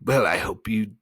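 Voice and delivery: high, loud mocking glee; gleeful. A narrator's reading. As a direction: gloat gleefully at the ones who fell for it. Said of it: "said the voice gleefully".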